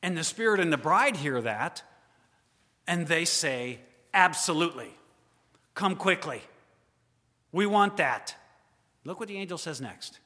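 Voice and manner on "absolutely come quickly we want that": eager reply. Acted. Bride eagerly answers Jesus.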